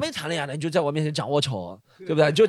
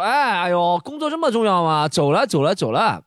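mock-exasperated raised voice; louder still; 4 dB louder than usual. Pretend boyfriend hurrying girlfriend out of work, louder still. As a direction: call out loudly, hurrying someone along. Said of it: "我就说话更加大声".

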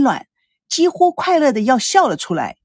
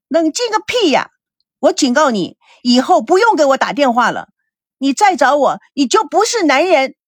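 furious retort; 3 semitones higher than usual. Acted. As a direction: spit it back at him. She rejects calm, issues warning.

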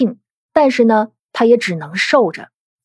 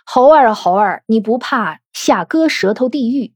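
mock scolding. Grandmother teasingly rebukes a sharp-tongued young woman, mock scolding. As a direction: lightly imitate a grandmother's fond telling-off. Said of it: "就嗔怪凤姐儿说".

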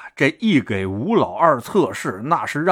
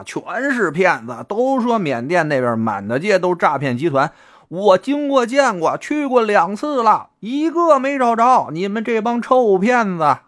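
high-pitched, exasperated tirade; ranting street abuse; 8 semitones higher than usual. A narrator's reading. Disillusioned man cursing everyone he meets as swindlers, ranting. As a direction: rail at the whole lot of them. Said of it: "见人就骂街".

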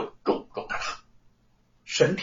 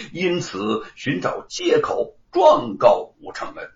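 higher, emphatic courtroom reasoning; magistrate laying bare the motive; 3 semitones higher, 4 dB louder than usual. Acted. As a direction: spell out the accusation, lightly in character. Magistrate states his conclusion. (官老爷有力地点破真相)

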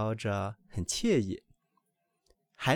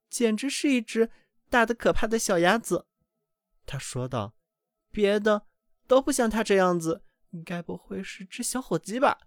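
much higher and louder, alarmed hen; mother duck shocked by her ugly chick, higher and louder; dismayed mother duck; 8 semitones higher, 5 dB louder than usual. A narrator's reading. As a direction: gasp at the huge ugly chick.

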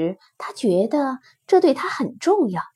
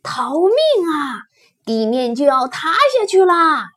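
panicked cry; 4 semitones higher, 4 dB louder than usual. Acted. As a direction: wail the alarm like a frightened herd. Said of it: "他们齐声喊道". (惊恐地拖长声音喊叫)

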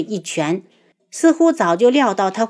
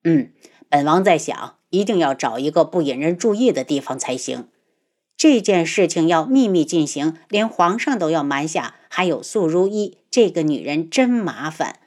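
lower, commanding male voice; prince voice; 3 semitones lower than usual. Acted. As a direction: voice him low and lordly. Male lead voiced low.

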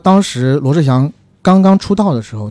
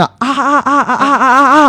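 imitated singer wail; 10 semitones higher, slower than usual. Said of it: "那位歌手在那".

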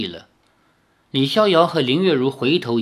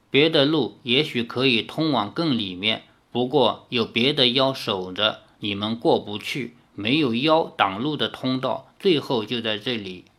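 put-on quiet girl voice; 3 semitones lower, 4 dB quieter than usual. Jiang Wan'er voiced softly.

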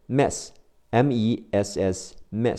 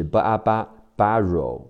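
American accent. Shown as a demonstration. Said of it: "美式发音是".

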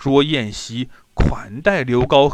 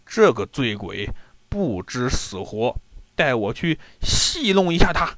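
scornful inner thought; 3 semitones lower than usual. Acted. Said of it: "心想".

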